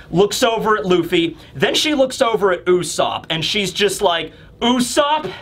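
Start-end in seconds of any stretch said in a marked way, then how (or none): 4.6-5.3 ominous command, drawn out very slowly; Nami, super pissed. Acted. Pissed Nami orders Usopp to act, slow menace. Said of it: "looks super pissed".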